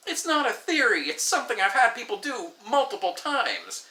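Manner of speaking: insistent protest. Retold or imitated. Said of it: "And I'm like".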